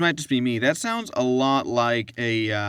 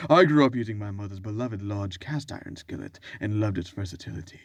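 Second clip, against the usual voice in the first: one-star review voice. Pretend. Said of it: "this is my one-star review voice".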